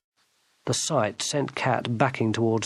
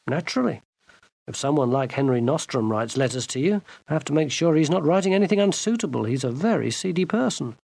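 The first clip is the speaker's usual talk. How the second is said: bland; 2 semitones higher than usual. Acted. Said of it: "nodded blandly".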